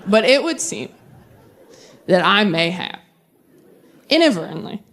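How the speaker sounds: halting, sheepish confession with pauses. Retold or imitated. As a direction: confess it slowly, embarrassed.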